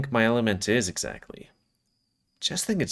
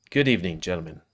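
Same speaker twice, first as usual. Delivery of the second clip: formal speech opening; 3 semitones lower, faster than usual. Acted. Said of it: "as if he's gonna make a speech".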